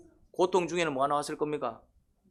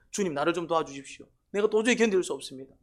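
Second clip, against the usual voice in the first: acted appeal for God's help, pitch lifting; pleading prayer; 3 semitones higher than usual. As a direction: beg the Lord as if at the end of endurance. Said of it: "기도하는 거예요".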